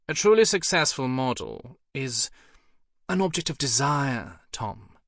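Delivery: lightly voiced cool posh English lady; bored cut-glass accent. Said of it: "her bored cut-glass accent".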